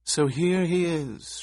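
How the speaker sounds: put-on high, slow, thin little girl; a small child, eerily calm. A narrator's reading. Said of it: "A thin voice with traces of a soft palate lisp".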